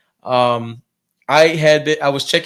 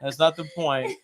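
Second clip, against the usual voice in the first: laughing protest; 3 semitones higher than usual. Real, not acted. Laughing rebuttal, repeated.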